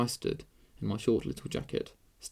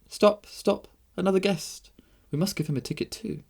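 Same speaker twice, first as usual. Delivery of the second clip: high, bright-pitched princess calling out; excited cry; 8 semitones higher than usual. A narrator's reading. Princess halts the game for a new guest, crying out. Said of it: "she cried".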